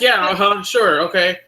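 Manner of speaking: high, humoring uh-huh; dismissive guard. Retold or imitated. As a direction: brush him off politely.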